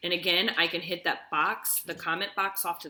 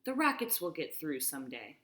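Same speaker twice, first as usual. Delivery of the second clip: calm reassurance; 4 dB quieter than usual. Acted. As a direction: gently comfort the frightened child. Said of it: "he stroked Laura's head against him and said".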